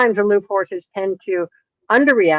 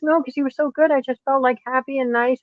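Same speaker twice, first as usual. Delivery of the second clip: higher-pitched, lightly imitated naive defence; meek buyer; 5 semitones higher than usual. Buyer explaining why she asked nothing, naively. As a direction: lightly play her, pitched up.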